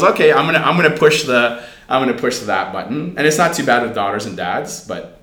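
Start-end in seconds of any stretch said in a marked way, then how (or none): 0.0-3.1 louder, higher teasing scheme; gleefully plotting to push buttons; mischievous daughter. Retold or imitated. Dad voices daughter plotting to push mom's buttons, playful.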